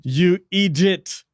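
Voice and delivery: slow, drawn-out insult in mock French accent. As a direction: lightly put on a French accent to scold. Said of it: "reading that in a French accent".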